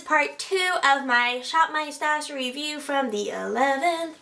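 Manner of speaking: slow, stretched-out words; oddly slow announcing; odd drawn-out delivery. Real, not acted. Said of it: "Why am I talking like this?".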